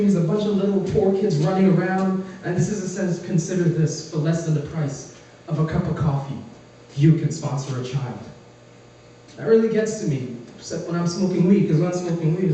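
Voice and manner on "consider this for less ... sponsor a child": low, earnest charity-ad pitch; lightly voiced old guy pleading for sponsors; commercial narrator voice. Old guy on late-night TV, a hint of solemn pitch. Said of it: "the old guy comes on screen".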